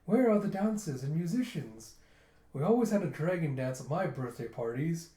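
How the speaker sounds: lightly affected refined talk; talking all fancy. Retold or imitated. Captain wanting a banquet, mildly fancy. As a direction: imitate a pampered rich kid. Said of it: "talking all fancy".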